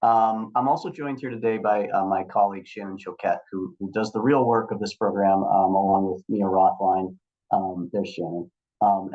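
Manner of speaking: hoarse from a cold; croaky, slightly hoarse voice; frog in throat. Real, not acted. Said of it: "apologies for the frog in my throat".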